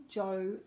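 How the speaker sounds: "Joanne" with a gliding O in the first syllable; careful model of "Joanne"; diphthong demo. Shown as a demonstration. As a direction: sound out "Joanne" with a full, held O. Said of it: "has the diphthong".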